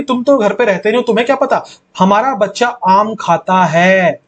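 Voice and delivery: a mild mock insistence, खाता है leaned on; a mother lightly insisting; insisting with stress. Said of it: "मां बार बार stress देके बोल रही". (मां का ज़ोर देकर जताना)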